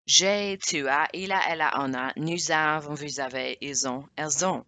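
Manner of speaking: brisk run through the verb forms; quick-fire French conjugation drill; fast-paced recital. Shown as a demonstration. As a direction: rattle off the conjugation in one go. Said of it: "that was too fast-paced for you".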